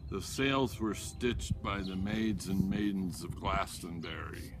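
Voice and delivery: a loud, proud ship's captain boasting of his vessel; a hint of a pirate captain, full voice; swaggering sea captain. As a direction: declaim it like an old sea dog at the helm.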